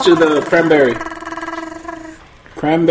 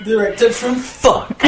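breaking character giggling; 2 semitones higher, slower than usual. Pretend. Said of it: "Stop making me laugh".

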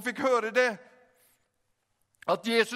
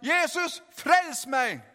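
retold cry to Jesus; 4 semitones higher, much slower than usual. Preacher retells own conversion prayer, half-raised cry. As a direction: call out in a restrained, pitched-up plea. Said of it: "men jeg ropte ut".

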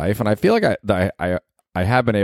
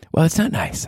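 higher, chiding partner voice; scolding girlfriend; 10 semitones higher than usual. Acted. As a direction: play the girlfriend telling him off. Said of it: "that little skit has ended".

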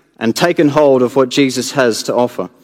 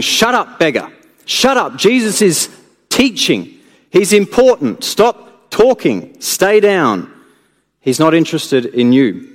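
rebuking crowd; 3 semitones higher than usual. Acted. Crowd rebuking the blind beggar, telling him to hush. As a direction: shush the beggar, annoyed. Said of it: "you can hear them also saying".

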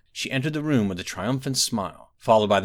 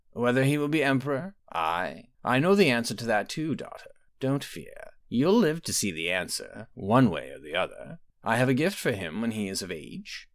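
a hint of a knowing old sorceress; mother calmly probing her daughter, lightly voiced; aging mother; 3 semitones higher than usual. Quintilla answers Potema.

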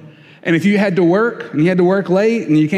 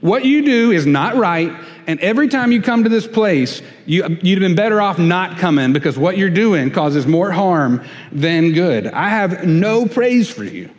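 scolding rebuke; 3 semitones higher than usual. Pretend. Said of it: "as if I showed up here and said".

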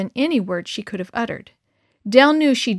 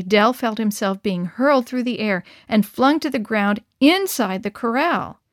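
usual speaking voice

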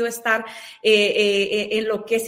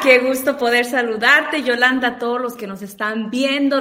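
excited greeting; 8 dB louder than usual. Real, not acted. Guest greeting the host and viewers, loud excited hello. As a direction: burst in with a big happy hello.

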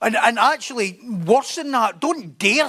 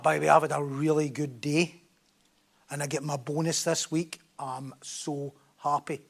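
mock happy person; 7 semitones lower, 7 dB quieter than usual. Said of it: "they're going like that".

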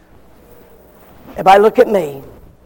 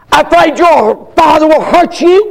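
sarcastic; 6 semitones higher, 5 dB louder than usual. A narrator's reading. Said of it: "asked sarcastically".

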